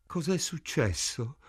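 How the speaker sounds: a touch of gasping for air. A narrator's reading. Morris waking on the floor, mildly gasping. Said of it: "boccheggiò".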